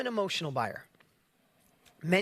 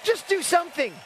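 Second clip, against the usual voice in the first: a light drawled Southern-actor take, higher and louder; a hint of laid-back movie-star coolness; Matthew McConaughey impression; 10 semitones higher, 5 dB louder than usual. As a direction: toss off the famous line like the actor himself, lightly voiced. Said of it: "As Matthew McConaughey said".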